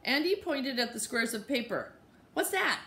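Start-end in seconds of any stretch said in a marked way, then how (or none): 2.3-2.8 put-on very high curious child voice; little kid asking. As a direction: ask like a nosy toddler. Toddler asking question.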